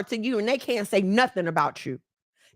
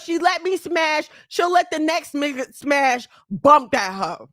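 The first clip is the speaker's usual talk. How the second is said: crude man's thought. Retold or imitated. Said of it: "They go home with thoughts of".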